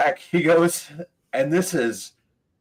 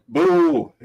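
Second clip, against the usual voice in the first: loud, raised imitation of a boo; heckler's boo; 4 semitones higher, 7 dB louder than usual. Someone in the crowd heckling the comic, loud mock boo. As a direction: boo out like an audience member. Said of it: "someone's like".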